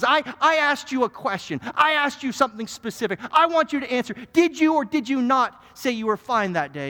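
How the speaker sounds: insistent lawyer. Acted. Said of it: "the lawyer cuts him off".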